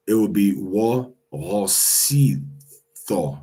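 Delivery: each syllable said separately. Shown as a demonstration. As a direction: sound it out one syllable at a time. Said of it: "So to be".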